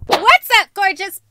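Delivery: loud, high, bubbly channel greeting; energetic YouTuber intro; vlog intro. Shown as a demonstration. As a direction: hype up the viewers. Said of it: "I do this every time".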